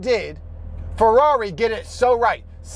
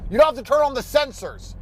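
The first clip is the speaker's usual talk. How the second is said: fed-up shout; 4 semitones higher than usual. Real, not acted. Yelling at the car's sensors.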